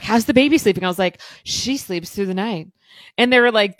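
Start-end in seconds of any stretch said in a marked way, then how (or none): 0.0-0.8 imitated question. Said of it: "They're like". 1.4-2.7 slow, mock-smug boast; cocky. Mother retelling her boast at the baby's checkup, cocky. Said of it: "I was super cocky too".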